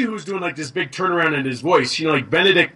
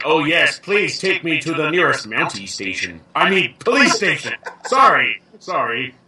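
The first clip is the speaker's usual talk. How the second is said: put-on Canadian accent; 2 semitones lower than usual. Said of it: "when they say something like".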